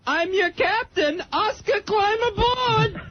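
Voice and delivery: hammed-up movie captain calling aboard; mock film captain. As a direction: ham it up like a swashbuckling film hero. Caller acts out film line.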